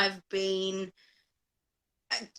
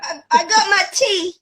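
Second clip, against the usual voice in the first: higher and louder, laughing as she answers; bright laughing reply; 9 semitones higher, 8 dB louder than usual. Real, not acted. Guest answering the host's teasing with a laugh. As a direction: pipe up with a laugh.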